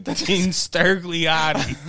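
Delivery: very slow drawn-out name; campaign ad voice. Pretend. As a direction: drag the name out grandly. Repeating the mock ad name.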